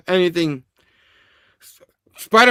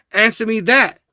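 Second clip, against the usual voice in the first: higher, forceful acted demand; angry demand; 5 semitones higher than usual. Spidey demanding answers between punches, angry. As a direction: insist on an answer, mock rage.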